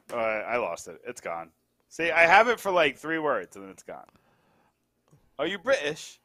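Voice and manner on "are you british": lightly put-on British accent; a faint attempt at a British accent; mock British accent. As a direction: try a British voice and land it. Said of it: "Oh, there. That was pretty good".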